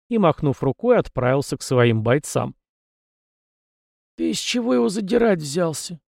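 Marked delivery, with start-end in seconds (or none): 4.2-6.0 scolding attack. A narrator's reading. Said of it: "вдруг напустился на парня Далибор".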